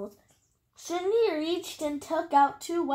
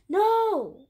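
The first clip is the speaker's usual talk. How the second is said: higher, louder shout of protest; sudden raised-voice refusal; crying out; 6 semitones higher, 6 dB louder than usual. A narrator's reading. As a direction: cry it out as an alarmed objection. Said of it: "cried out Odds and Ethan".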